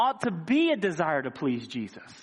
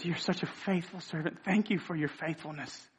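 voicing Jesus; 2 semitones lower, 7 dB quieter than usual.

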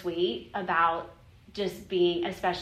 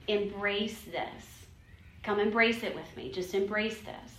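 softer, gentle reassuring words from God; soft loving reassurance to Christy; tender God; 4 dB quieter than usual. Retold or imitated. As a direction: speak it soft and close, like comforting a child. He's like.

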